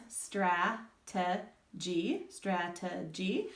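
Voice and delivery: very slow strategy, three separate syllables; strategy broken into slow syllables; syllables tapped out. Shown as a demonstration. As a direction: tap out strategy slowly. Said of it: "We'll tap those out".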